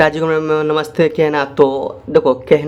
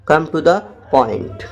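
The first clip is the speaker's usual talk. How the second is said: slow dictation; much slower than usual. Shown as a demonstration. Teacher repeating the phrase for students, very slow. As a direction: come to the point said very slowly, word by word. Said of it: "English में बोलना".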